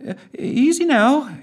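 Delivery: steadying, soothing; calming voice. A narrator's reading. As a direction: keep it level and reassuring. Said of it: "trying to keep her voice level".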